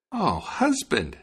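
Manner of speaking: high, drawn-out lament; high-pitched wifely woe; distressed wife. A narrator's reading. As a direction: call out slowly and high in dismay. Wife lamenting to her husband.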